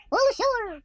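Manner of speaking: shouted high and loud, All ashore; sailors shouting. Acted. The men on the ship shout to the crowd, loud high call. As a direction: call it out like a deckhand.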